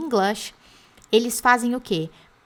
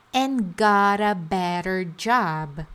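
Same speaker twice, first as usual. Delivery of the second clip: slow drill; 2 semitones lower, slower than usual. Shown as a demonstration. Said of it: "Nesse caso aqui".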